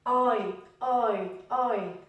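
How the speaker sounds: "I" as eye, gliding from ah to ee; drawn-out English "I" with two joined vowels; diphthong. Shown as a demonstration. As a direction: let both sounds ring out in each "I".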